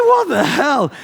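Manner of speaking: high startled cry; stunned outburst at the storm; shocked yell. Retold or imitated. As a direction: blurt it out in disbelief.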